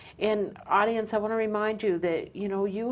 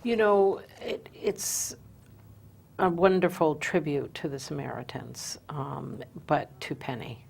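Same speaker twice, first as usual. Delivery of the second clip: choking up. Real, not acted. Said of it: "I'm getting emotional".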